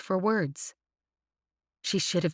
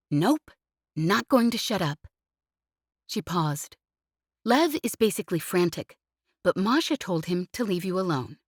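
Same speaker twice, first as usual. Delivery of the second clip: cheeky pilot Jez; 3 semitones higher than usual. Acted. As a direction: needle him playfully, pitched up. Voices Jez on comm.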